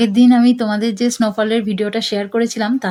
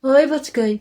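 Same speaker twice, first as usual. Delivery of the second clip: higher calling voice, falling end; calling the pet; 5 semitones higher, much slower than usual. Real, not acted. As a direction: call the pet's name down.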